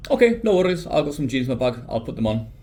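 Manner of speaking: high, loud start, dropping toward normal; quick to offer a fix, retold; eager reassurance. Traveler pleading with a Dublin bouncer, eager reassurance. Retelling his plea to bouncer.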